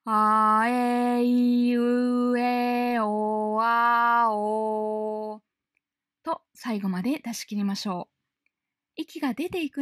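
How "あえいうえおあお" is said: one long, loud, sustained breath through the vowels; long deep breath vowels. Shown as a demonstration. Teacher demonstrating vowels on one breath. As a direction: stretch each vowel out on a single deep breath. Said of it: "深い声をイメージしながら一息で".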